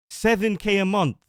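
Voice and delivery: stunned, emphatic disbelief; incredulous. Real, not acted. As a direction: spell out the absurd number in disbelief. Outraged at her lowered demand.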